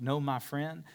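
ordinary delivery

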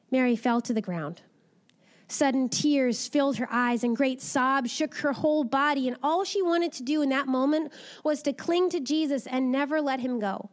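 put-on lively storybook reading for children; animated children's story voice; story narration. A narrator's reading. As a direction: read it like a bedtime Bible story. Reads a children's Bible story.

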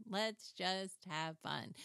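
slow, gentle coaxing; slow tender coaxing to her sewing machine. Retold or imitated. Repeats line to sewing machine.

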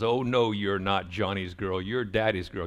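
playful teasing as daddy; teasing dad line. Retold or imitated. Dad teasing his little daughter, playful. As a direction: lightly tease her back. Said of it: "My line was".

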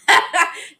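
a short, airy laugh at herself; laughing off the frustration; breathy laugh. Real, not acted. Laughs at her own mistake.

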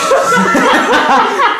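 cracking up mid-story at the manager; high shrieking laugh. Real, not acted. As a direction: laugh breaks out high and loud. Laughing retelling the complaint.

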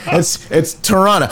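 "Toronto" said like tuh-RAH-nuh; the clipped local "Toronto". Shown as a demonstration. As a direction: rhyme "Toronto" with Tirana. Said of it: "almost like a Holden Tirana".

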